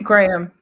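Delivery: Graham in two syllables, 'Gray-um'; own way of saying Graham. Shown as a demonstration. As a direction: say Graham as Gray-um. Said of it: "How you guys say Graham?".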